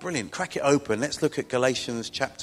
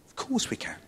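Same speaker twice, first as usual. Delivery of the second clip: eager yes; 11 semitones higher, 4 dB quieter than usual. Retold or imitated. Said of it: "And we said".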